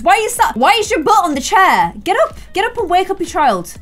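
high-pitched nagging at a partner; exasperated scolding. Pretend. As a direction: scold them in mock outrage. Scolds game partner and family.

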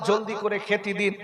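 put-on understated crying children begging mother for food. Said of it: "কেঁদে কেঁদে বলছে".

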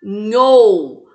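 "Nhou" loud and held long; isolated stressed syllable. Shown as a demonstration. Teacher answering which syllable is tonic, "Nhou" stressed and drawn out. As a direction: hit "Nhou" hard and stretch it. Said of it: "Qual que é a sílaba tônica?".

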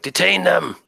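high-pitched sergeant's yell. Acted. Game master voices the sergeant ordering his men, yelling out. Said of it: "He's yelling out".

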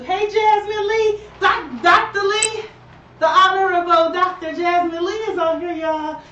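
really excited. Real, not acted. Host greeting a role model who just joined the live, really excited. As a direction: hail an honored guest with real excitement. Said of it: "I just got really excited".

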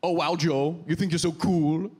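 put-on foreign coworker's teasing accent; imitated non-native accent, a little sassy; Hannah. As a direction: tease in a vague foreign accent. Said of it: "woman who talked like that".

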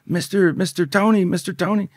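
calling out. Retold or imitated. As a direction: lightly call after him to stop him.

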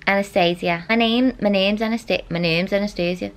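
halting practice of a Manchester accent; attempted Manchester accent. Shown as a demonstration. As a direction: feel out a put-on Manchester accent. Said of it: "hard to say in an accent".

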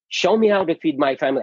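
urgent rush of a mock cry at God. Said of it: "I was screaming at God".

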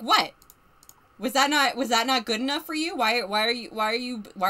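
lightly hammed-up hurt pride; mock indignant. Acting an offended, bickering character.

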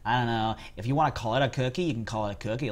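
lightly mocked American accent. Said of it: "If you're American, it's a cookie".

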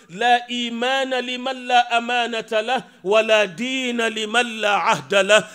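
brisk, rhythmic Arabic recitation of a hadith; quick chanted hadith quote. Acted. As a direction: recite the Prophet's words at a fast, measured pace.

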